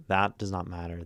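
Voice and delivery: THAT punched at the start, rest falling; stress on THAT. Shown as a demonstration. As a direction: hit THAT, then let "does not matter" go. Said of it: "emphasizing a word changes the meaning".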